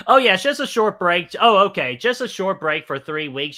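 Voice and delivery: loud, high sarcastic "oh yeah"; mock agreement. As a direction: echo it back with teasing disbelief. Teases co-host's "short break" line.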